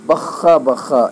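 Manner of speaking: slow, loud, delighted cry; drawn-out cheer of joy; joyful exclamation. Shown as a demonstration. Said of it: "یہ بہت خوشی کے وقت یہ لفظ نکلتے ہیں".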